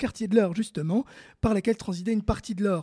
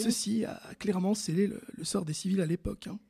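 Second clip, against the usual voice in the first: hushed grave aside; 6 dB quieter than usual. Acted. Grave aside about civilians' fate.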